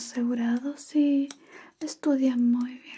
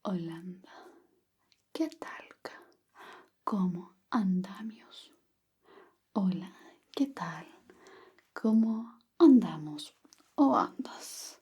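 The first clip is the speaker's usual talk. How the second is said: slow whispered dictation of "Holanda, ¿qué talca? ¿Cómo andamios?"; slow model phrase; 5 semitones lower than usual. Shown as a demonstration. Teacher dictates the phrase slowly for the student to repeat. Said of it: "repita después de mí".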